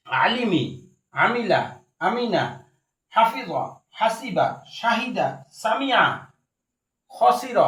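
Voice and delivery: evenly spaced word-list recitation; sight-reading drill. Shown as a demonstration. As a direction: read each word whole, falling at the end. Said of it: "দেখার সাথে সাথেই আপনারা".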